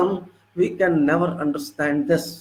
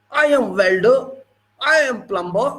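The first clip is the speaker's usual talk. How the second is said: firm, proud self-introductions; proud tradesmen imitation; 3 semitones higher than usual. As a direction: announce each trade with imitated pride. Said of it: "how proudly they say".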